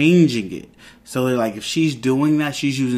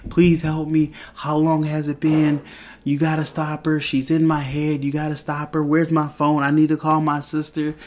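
higher-pitched mock plea for help; lightly panicked imitation, pitched up; retold freak-out; 4 semitones higher than usual. Norm begs Vision for help once released, mildly freaking out. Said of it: "he just freaks out".

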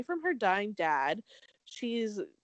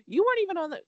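heated; 8 semitones higher, 5 dB louder, much faster than usual. Real, not acted. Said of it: "why am I so heated?".

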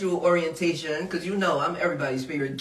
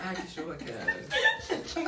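hammed-up host; 9 semitones higher, 9 dB quieter, much slower than usual. Playful hosting bit while pouring.

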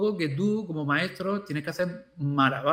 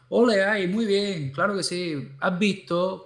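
bright, cheering praise for a small win; gushing teacher praise; enthusiastic praise. Retold or imitated. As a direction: cheer the kid on like he just nailed it.

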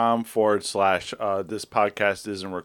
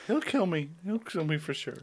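overacted death scene; 8 semitones higher, 7 dB quieter than usual. Joking he will be killed.

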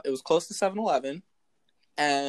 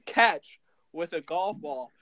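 laughing disbelief; 5 semitones higher, 5 dB louder than usual. Retold or imitated. Dad quoted in disbelief.

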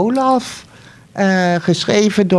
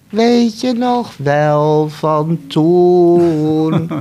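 slow, dreamy look back; nostalgic; 2 semitones lower, much slower than usual. Pretend. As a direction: draw it out like an old memory. Imagined future nostalgic remark. (traag en weemoedig)

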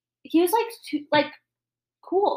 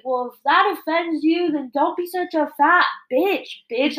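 imitated angry comeback, higher pitch; going off; 4 semitones higher, 3 dB louder than usual. Imitating a customer going off on the waitress, angry. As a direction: replay the customer's insult with some force. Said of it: "goes off on me".

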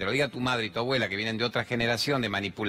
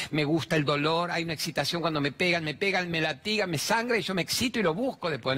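mock masochist voice; 4 semitones higher than usual. Voicing a masochist.

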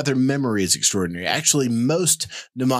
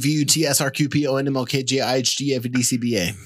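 backwards speech; 3 semitones higher than usual. Shown as a demonstration. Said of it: "I didn't, and I will".

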